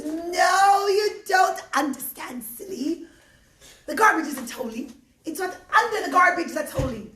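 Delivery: put-on high, cracking old lady voice; old woman voice. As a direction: speak like a frail grateful old woman.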